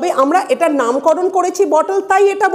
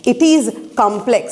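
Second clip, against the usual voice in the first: slow, stress on is; slow read; much slower than usual. Shown as a demonstration. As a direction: dictate slowly to the class. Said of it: "সেটা বলছি". (ধীরে ধীরে বলা)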